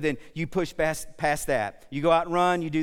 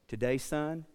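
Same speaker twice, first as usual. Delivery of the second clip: gentle and kind; 5 dB quieter, slower than usual. Retold or imitated. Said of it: "in his gentle and kind voice".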